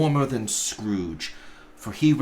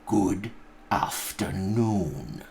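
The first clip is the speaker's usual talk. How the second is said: slow dismissal; slower than usual. Acted. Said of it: "said Scrooge".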